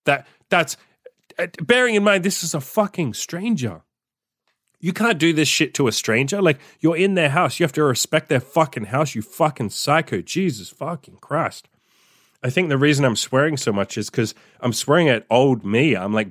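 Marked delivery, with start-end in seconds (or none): 0.1-11.7 real exasperation, pitched up; high-pitched, outraged ranting; indignant rant. Real, not acted. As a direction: scold them in disbelief, higher than usual. Ranting at the absent guest.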